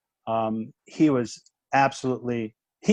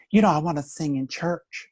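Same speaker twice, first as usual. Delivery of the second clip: higher, lightly imitated Southern accent; 4 semitones higher than usual. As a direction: give her a touch of Southern accent. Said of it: "she's got this beautiful Southern accent".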